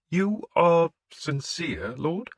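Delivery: the priest questioning a pagan lord; wary priest. A narrator's reading. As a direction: probe him gently as the suspicious priest. Priest voice in narration.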